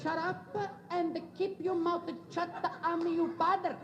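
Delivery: lightly put-on Italian accent, scolding papa; stern Italian-accented father laying down the law; Italian father's accent. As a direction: imitate an Italian papa putting his son in his place. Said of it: "He says".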